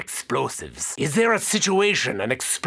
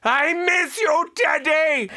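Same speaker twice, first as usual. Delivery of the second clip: high, slow shout of affection; high drawn-out joyful cry; gushing shout; 14 semitones higher, slower than usual. Acted. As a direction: call out with exaggerated longing. Calling out to gun.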